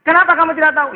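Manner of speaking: tiruan hardikan di akhirat, tinggi dan lantang; interogasi menuntut. Acted. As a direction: tuntut jawaban dengan suara keras. (memerankan penanya yang tak menerima alasan)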